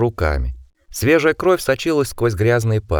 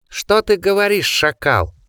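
angry; 9 semitones higher, slower than usual. A narrator's reading. Osmond snarls at the driver.

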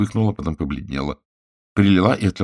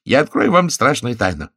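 noisy merry confiding; 6 semitones higher, 5 dB louder than usual. A narrator's reading. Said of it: "шумно засмеявшись".

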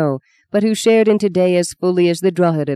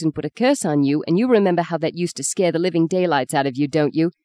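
mock fierce. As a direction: scold him like a bossy big sister. Sister threatens brother over marriage.

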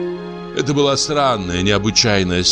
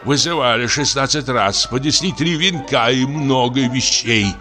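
put-on lamenting old actor; 4 semitones higher than usual.

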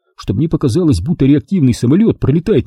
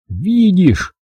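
understated gloom, raised pitch; gloomy self-talk; 7 semitones higher than usual. A narrator's reading. Jack talks to himself walking away, mildly gloomy. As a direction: grumble glumly to yourself. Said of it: "мрачно говорил я себе".

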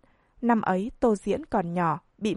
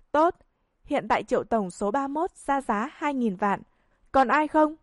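lightly voiced auctioneer calling bids; 4 semitones higher than usual. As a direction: announce the bid, then ask for more. Auctioneer calls the bid.

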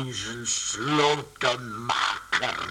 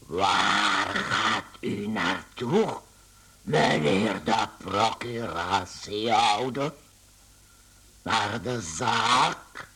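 pleading; 2 semitones lower than usual. Acted. Gregor pleading with the clerk.

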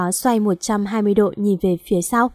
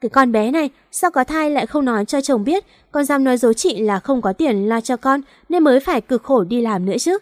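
put-on older colleague scolding, mildly raised; 3 semitones higher than usual. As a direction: tell off a younger sister, pitched up. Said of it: "chị hét to".

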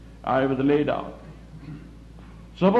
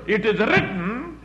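top of your voice; 4 semitones higher than usual. Shown as a demonstration. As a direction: declare the scripture boldly, stretching it out. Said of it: "on the top of your voice".

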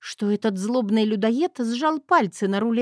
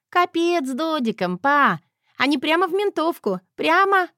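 put-on much higher excited kid chatter; thrilled; 7 semitones higher, 3 dB louder than usual. Girl cheers at her dad during the chase, thrilled. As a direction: egg dad on gleefully.

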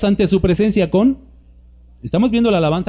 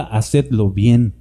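slow emphatic quote; 6 semitones lower, much slower than usual. Shown as a demonstration. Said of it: "dice la Escritura".

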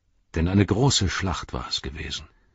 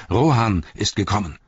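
calling out; 3 semitones higher than usual. Acted. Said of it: "riefen sich zu".

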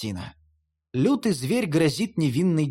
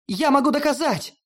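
high, urgent insistence; Hel protesting, high; 9 semitones higher than usual. A narrator's reading. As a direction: plead to be heard. (высоко, настойчиво)

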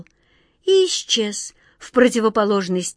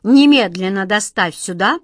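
imperious order; 6 dB louder than usual. Acted. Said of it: "повелительным жестом".

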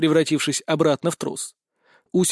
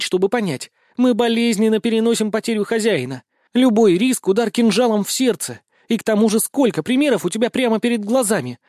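a fierce goddess scolding, higher and louder; angry cat goddess; 7 semitones higher, 4 dB louder than usual. Acted. Ustinya rebuking her master for risking his life, angry. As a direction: lecture him, hurt and furious. Goddess lecturing him in anger.

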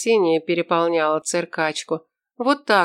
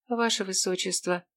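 much softer, urgent hushed address; hushed call; 7 dB quieter than usual. Acted. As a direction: keep it down, call him quietly.

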